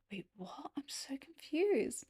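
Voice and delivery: bewildered whisper. Retold or imitated. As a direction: whisper it, baffled. Retold bewildered reply, whispered.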